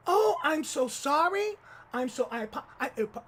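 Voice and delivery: mock Latina accent, over-apologetic; thick Latina accent. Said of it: "her accent was so thick".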